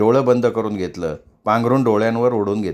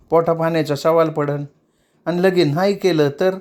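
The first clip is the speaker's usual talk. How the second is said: put-on higher, plaintive young dancer; mildly tearful young woman; tearful explaining; 5 semitones higher than usual. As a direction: lay out her trouble, pleading.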